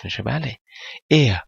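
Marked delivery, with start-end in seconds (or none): 1.1-1.4 Er said as "e-a", no consonant r; final r as vowel. Shown as a demonstration. Teacher demonstrates how Er is pronounced, r as vowel. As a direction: model Er with the r melted into a vowel. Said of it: "این اغ هم در واقع ا تلفظ".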